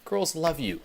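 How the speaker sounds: buddy pumping up a friend; hyping friend. Retold or imitated. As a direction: sell him the dream. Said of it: "you hear someone say".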